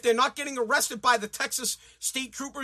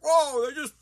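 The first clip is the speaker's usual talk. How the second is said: mock naive plea; 2 semitones higher, 4 dB louder than usual. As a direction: imitate a naive bleeding heart. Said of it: "And everybody's like".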